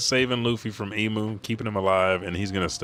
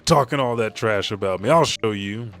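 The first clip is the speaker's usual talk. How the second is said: raised-pitch, indignant retort; mildly angry grumbling; 3 semitones higher, 4 dB louder than usual. Retold or imitated. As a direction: fume a little and promise payback. Luffy fumes at the old man.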